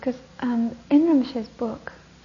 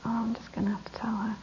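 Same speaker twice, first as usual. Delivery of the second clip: soft guilty whisper; hushed conscience; whispered resolve; 9 dB quieter, faster than usual. Acted. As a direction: admit it to yourself quietly.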